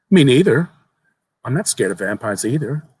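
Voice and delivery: lightly voiced young boy. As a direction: tell it like an eager child sharing a secret. Boy's bravado.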